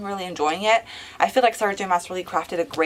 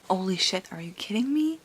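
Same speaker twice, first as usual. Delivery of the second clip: soft but eager, held-down thrill; hushed excitement; 6 dB quieter than usual. Acted. Vlogger quietly gushing about the reunion, hushed. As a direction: contain the excitement to a hush.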